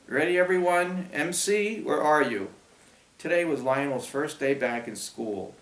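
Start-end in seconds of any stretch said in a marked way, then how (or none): 0.1-2.5 calling out to class. Acted.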